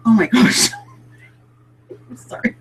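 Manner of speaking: giggling nervously through the words; flustered gasp, then a shy giggle; nervous laugh. Real, not acted. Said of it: "I have a nervous laugh".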